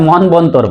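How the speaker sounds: মনবন্তর said monbontor, with a b; another mispronunciation. Shown as a demonstration. Teacher shows what some others say, mispronounced. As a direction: sound a b after n in মনবন্তর. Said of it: "কেউ আবার ... বলে".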